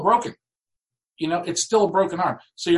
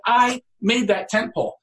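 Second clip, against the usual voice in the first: higher, beaming kid's boast, lightly voiced; proud excited kid; 6 semitones higher than usual. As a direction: show the boy's pride in what he made. Kid proud of his tent.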